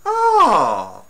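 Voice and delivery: put-on loud, theatrical cooing at a child; mock-gush over the baby, hammed up; campy villain cooing. Reviewer imitating the villain gushing over the child. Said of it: "it's like".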